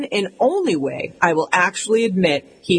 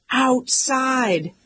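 retold shout; 6 semitones higher than usual. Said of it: "I shout".

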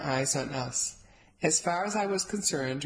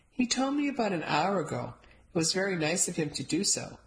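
sarcastic; 3 semitones higher than usual. Acted. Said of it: "Sarcasm dripped from Grandma Rose's mouth".

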